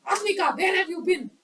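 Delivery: loud, angry demand. Shown as a demonstration. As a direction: snap the question out loudly in anger.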